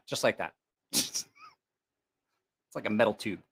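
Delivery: normal talking voice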